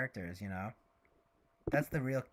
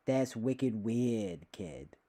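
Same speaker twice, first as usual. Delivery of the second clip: put-on Boston accent; much slower than usual. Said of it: "Very Boston, though".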